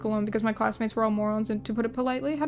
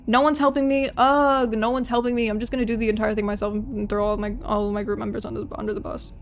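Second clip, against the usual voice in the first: whiny complaining. Retold or imitated. Whiny quote of younger self.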